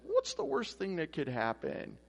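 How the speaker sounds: mock-innocent question, starting high; sarcastic conscience. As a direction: let the inner voice tempt with light sarcasm. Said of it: "I recognize that as sarcasm".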